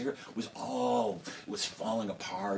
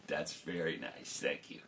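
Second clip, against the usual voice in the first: put-on old king; 6 semitones lower, 6 dB quieter than usual. King answers second daughter.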